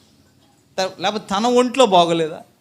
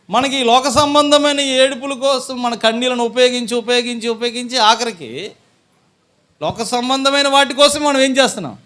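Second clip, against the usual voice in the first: raised, louder sermon voice; forceful preaching; 6 semitones higher, 6 dB louder than usual. Real, not acted. Preacher to congregation on tears spent on worldly things, forceful preaching. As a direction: press the point on the congregation.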